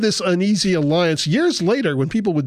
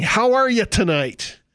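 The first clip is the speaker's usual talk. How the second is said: mock emcee greeting; 5 semitones higher than usual. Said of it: "he starts by saying".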